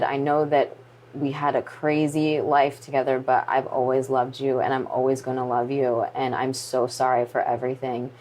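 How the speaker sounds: low, subdued farewell to a wife; calm, retold. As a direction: relay a loving apology gently. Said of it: "he was the calm one in this".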